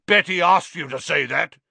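yell. A narrator's reading. Sir Patrick's head scoffing at Harry, yelling. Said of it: "yelled Sir Patrick's head".

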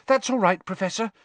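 high, strained reassurance after being grabbed by the neck; gasping. A narrator's reading. Pupil reassures the teacher who grabbed her neck, gasping. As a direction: gasp it out in a high voice. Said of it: "Hermione gasped, massaging her throat".

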